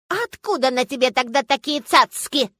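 громкий ехидный голос старушки; подколи, как вредная бабка; ехидная бабуля. Acted. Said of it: "ехидно сказала бабуля". (ехидная старушка)

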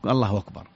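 "الله أكبر" run together as "Allahwakbar"; eased hamza. Shown as a demonstration. Sheikh illustrating an Arab dialect, "أكبر" softened to "wakbar". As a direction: slide into "أكبر" on a w, no glottal stop. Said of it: "والهمزة تسهل في،".

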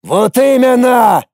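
slow, high, loud furious cry; angry shout. A narrator's reading. Garlin angrily shouting at Lorana. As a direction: explode in anger. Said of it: "гневно заявил Гарлин".

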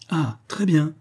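put-on high-pitched, delighted old lady; delighted exclamation. A narrator's reading. Mother exclaiming at her son's answer, delighted. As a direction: exclaim as if it all clicks. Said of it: "s'écria-t-elle".

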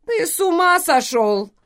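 high squeaky toy voice. Acted. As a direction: squeak it out in shock. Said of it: "пропищал Грейхру".

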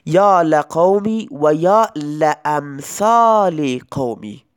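slow یا لقومی و یا لامثال قومی with an open "la" on both lams; example recited slowly. Shown as a demonstration. Teacher to students, reciting the example slowly for the fatha. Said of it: "مانند این مثال".

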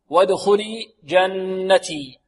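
slow, measured verse recitation; careful tajweed chant; model recitation. Shown as a demonstration. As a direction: recite with held nasal n. Teacher recites verse slowly.

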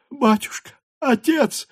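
cling to him and beg; crying out. A narrator's reading. Mother cries out to Pierre, grasping his legs. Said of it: "закричала она".

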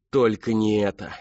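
anguished cry. Acted. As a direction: cry out in dread. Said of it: "вскричал он".

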